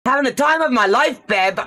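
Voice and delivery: breezy fake cheer to her husband; fake cheerful. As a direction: pretend all is fine, brightly and fast. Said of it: "determined I was not going to tell".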